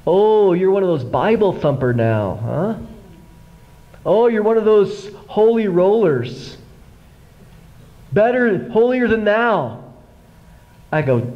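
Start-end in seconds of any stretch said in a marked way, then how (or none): 0.1-2.7 mocking name calling. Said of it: "began the name calling". 4.1-9.8 mocking name calling. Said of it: "began the name calling".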